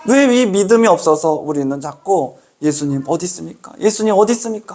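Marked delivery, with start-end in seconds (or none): 2.6-3.7 예수님 어디 있습니까 said softer, a quiet hurt question; soft plaintive plea. Retold or imitated. Preacher voicing a believer crying to Jesus, quiet lament. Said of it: "하며 울고 있는 겁니까". 3.8-4.7 예수님 어디 있습니까 raised higher, 어디 pushed up like calling out; higher pleading cry. Retold or imitated. Preacher voicing a believer crying to Jesus, higher pleading call. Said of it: "하며 울고 있는 겁니까".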